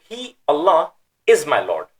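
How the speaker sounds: HE and ALLAH lifted high, then falling on "is my Lord"; emphatic. Shown as a demonstration. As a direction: stress He, Allah, then drop. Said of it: "it's for emphasis purpose".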